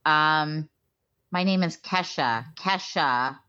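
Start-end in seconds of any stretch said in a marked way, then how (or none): 1.3-3.4 The name said KESH-uh, short E. Shown as a demonstration. Quoting the singer's correction, KESH-uh. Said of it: "not Keisha".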